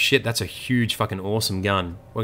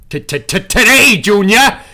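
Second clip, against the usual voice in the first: stuttering; 12 semitones higher, 10 dB louder than usual. Pretend. Stuttering mock announcer.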